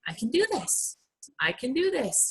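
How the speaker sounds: quiet self-belief. Retold or imitated. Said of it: "they're just like".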